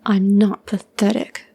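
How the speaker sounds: slow growl through gritted teeth. Acted. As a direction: force it out through clenched teeth. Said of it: "John growled through his teeth".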